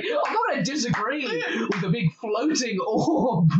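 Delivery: half-laughing, amused mock. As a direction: giggle through the surrender. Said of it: "and it's like".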